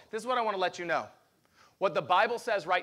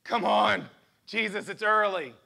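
sleepy angels. Pretend. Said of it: "And they're like".

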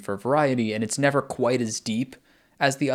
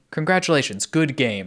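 higher, slightly louder good sport; sporting villain; 4 semitones higher, 4 dB louder than usual. Retold or imitated. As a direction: congratulate like a respectful rival. Voicing chess master praising player.

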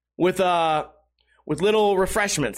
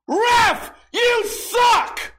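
high, loud heckling scream; drunk fan heckle; 13 semitones higher, 3 dB louder, much slower than usual. Retold or imitated. Obnoxious drunk fan screaming at the ref, loud and high. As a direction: bellow it across the rink like a drunk fan. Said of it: "some random obnoxious drunk guy scream that".

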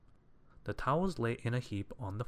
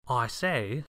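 lightly voiced jolly visitor, louder; a hint of hearty cousin; Mister Clumsy; 2 semitones higher, 6 dB louder than usual. A narrator's reading. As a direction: remark with breezy enthusiasm. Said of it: "remarked Mister Clumsy".

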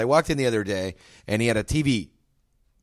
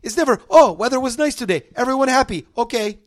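high, pitched-up shopkeeper voice; gas station owner rant; 10 semitones higher than usual. Retold or imitated. Owner complaining about the news to a customer, high voice. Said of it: "he's pointing at the news".

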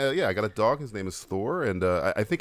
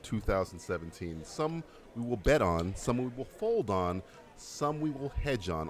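segment host read; 4 dB quieter than usual. Acted. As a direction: present the rules like a game show. Hosts the segment intro over music.

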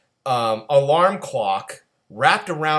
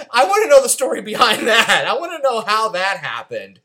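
words through real laughter, higher; laughing; 7 semitones higher, 5 dB louder than usual. Real, not acted. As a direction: talk while still laughing. Laughing at absurd movie scene.

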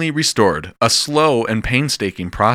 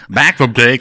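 louder, fumbled radio host opener; botched radio intro; 2 semitones higher, 6 dB louder than usual. Retold or imitated. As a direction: ham up a failed DJ intro. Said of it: "I was like".

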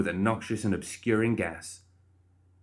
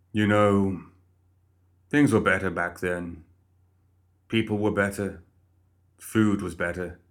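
lightly voiced smug undead head; a hint of a boastful old head reminiscing; mildly smug, nostalgic old-timer; Philip's voice. Philip the head's voice.

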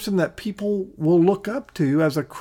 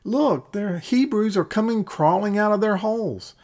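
mild imitation of a shout; mock shout; 3 semitones higher than usual. Philistines spotting the Hebrews climbing out, mild mock shout. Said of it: "They shout".

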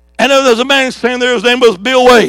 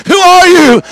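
pitched-up call to the crowd, who are you; high preacher call; 6 semitones higher, 4 dB louder than usual. Real, not acted. Preacher calling out to the congregation, raised high. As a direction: fling the question high at the church.

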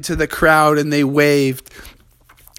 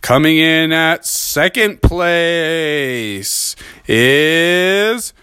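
slow, drawn-out announcing; lightly voiced announcer, slow suspense; awards announcer; 3 semitones higher, much slower than usual. The announcer names second place, slow drawn read.

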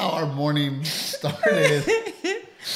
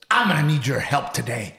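mock demanding wife, lightly hammed up; exaggerated imitation of wife; 3 dB louder than usual. Husband retelling his wife's morning demand, teasing imitation. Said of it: "my voice did not sound like that".

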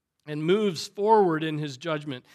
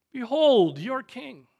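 higher, louder, slow angry fling; angry proclamation; 6 semitones higher, 5 dB louder, slower than usual. Acted. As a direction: fling it out to vent anger. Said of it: "He's angry about the situation".

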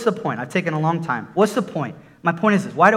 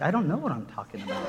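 laughing; 2 semitones lower, 9 dB quieter, faster than usual. Real, not acted. Laughing at his own hunch.

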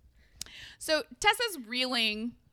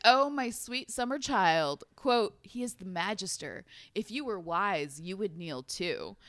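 slow, patronizing villain quote, sinking lower; condescending; 3 semitones lower than usual. Acted. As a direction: talk down to a naive child, slowly. Acting Nate's condescending reply.

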